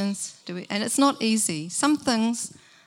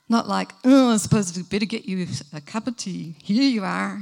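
mock reluctant, put-upon offer of tea; grudging sigh; 3 dB louder than usual. Host grudgingly serving a guest, mock reluctant. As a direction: sound like serving is a chore. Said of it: "we wouldn't want to talk like that".

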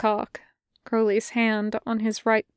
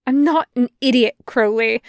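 louder, a touch of desperation; a little desperate; 4 dB louder than usual. Acted. Angel insisting to Crowley he isn't a fool, a little desperate. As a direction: plead to be taken seriously. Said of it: "a little bit desperately".

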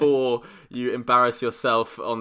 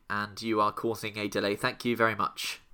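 polite train guard voice; stern but polite guard announcement; train station announcement. Pretend. Tube guard addressing passenger.

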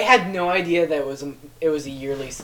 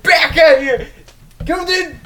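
high, loud laughing reply; 11 semitones higher, 10 dB louder, slower than usual. Real, not acted. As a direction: toss it back while laughing.

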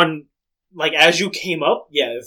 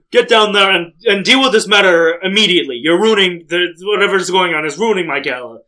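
raised, louder voice of an irritated host; household head ordering; 3 semitones higher, 6 dB louder than usual. Acted. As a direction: order the help to fix it immediately. Irritated host orders guard away.

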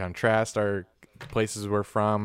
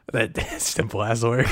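breaking into laughter mid-sentence; real laugh in the words; laughing while talking. Real, not acted. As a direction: crack up at yourself as you speak. Cracks up at forgotten word.

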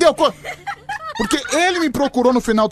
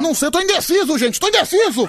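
mock indecision; 7 semitones higher than usual. Host teasing the caller on air.

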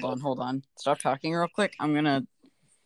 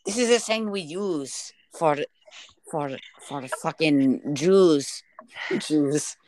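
halting put-on German accent; hesitant German-accented parody; mock German accent. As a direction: fumble along in a fake German accent. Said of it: "I forgot my German accent".

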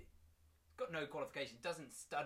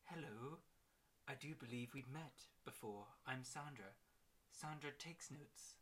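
1 seductive secretary; 7 dB quieter than usual. Acted. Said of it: "a little bit seductive".

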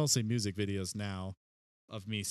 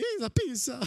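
squeaky cartoon voice; 13 semitones higher, 4 dB louder than usual.

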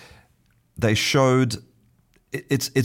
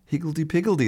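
playful; 9 semitones higher, much faster than usual. Shown as a demonstration. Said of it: "higgledy-piggledy has a kind of fun".

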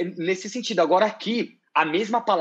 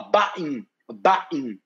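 put-on Birmingham accent; 3 semitones lower than usual. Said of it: "Ele vai falar".

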